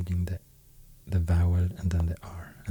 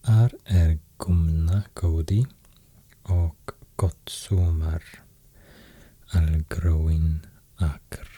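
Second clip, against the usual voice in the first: slow, measured recital in Icelandic; deliberate Icelandic verse recitation; Icelandic poem reading. Shown as a demonstration. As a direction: read the old verse out slowly, word by word. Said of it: "I will read now the Icelandic poem".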